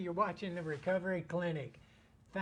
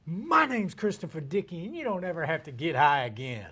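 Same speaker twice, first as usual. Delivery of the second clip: louder, firm self-introduction; proud declaration; 7 dB louder than usual. Shown as a demonstration. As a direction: announce it proudly, like a promise. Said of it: "I wanted to hear something like".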